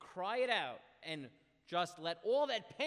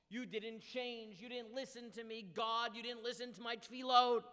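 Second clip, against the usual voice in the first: raised, higher-pitched accusing cry, loudest at the end; retold yelling; 4 semitones higher, 3 dB louder than usual. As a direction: imitate a prophet's anguished yell without full volume. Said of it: "he yells at God".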